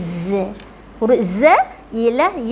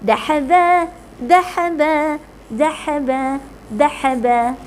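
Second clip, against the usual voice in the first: quick. Shown as a demonstration. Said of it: "Okey, laju".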